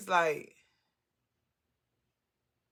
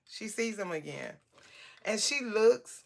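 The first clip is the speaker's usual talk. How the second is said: ordinary delivery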